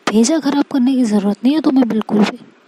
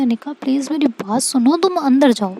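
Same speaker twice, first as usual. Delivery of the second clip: gently coaxing; 2 semitones higher than usual. Acted. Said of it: "प्यार से समझा रही होती है".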